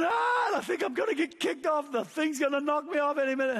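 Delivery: screaming. Retold or imitated. Father riding a huge wave, yelling he'll be knocked off. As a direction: shout it out half-terrified, half-thrilled. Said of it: "I'm screaming".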